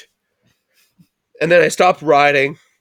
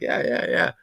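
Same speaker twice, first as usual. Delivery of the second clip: whispered; 5 dB quieter than usual. Retold or imitated. Brushing off mom.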